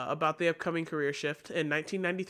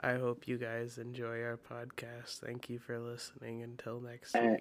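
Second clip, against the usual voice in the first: bored, low, flat, droning monotone; 5 semitones lower, 7 dB quieter than usual. Hosts close a mock boring podcast, speaking in a monotone voice. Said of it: "We have monotone voices the entire time".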